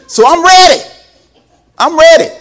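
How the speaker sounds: high, loud shout of readiness; emphatic declaration. Retold or imitated. Preacher recalling standing up to a remark, high shout. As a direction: holler it out to the congregation. Punchline, declares himself ready.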